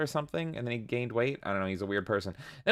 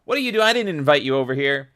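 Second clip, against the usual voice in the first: mock outrage; 3 semitones higher, 6 dB louder than usual. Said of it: "and I'm like".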